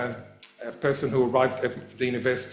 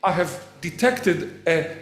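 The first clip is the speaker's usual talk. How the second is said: pedantic logician; 5 semitones higher than usual. Retold or imitated. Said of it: "if you're a logician, you say".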